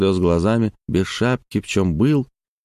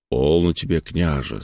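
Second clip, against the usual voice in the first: calm; 3 semitones lower than usual. Acted. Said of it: "спокойно промолвил Лазарь".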